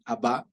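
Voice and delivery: "Abba" said ab-BÁ, last syllable stressed; stress on second A. Shown as a demonstration. Teacher shows how it is said, "Abba" stressed as ab-BÁ. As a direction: put the accent on the final A of "Abba". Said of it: "ya es Abba".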